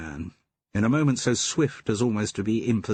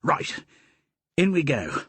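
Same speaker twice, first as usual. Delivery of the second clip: called out; 7 semitones higher than usual. Acted. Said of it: "he called out".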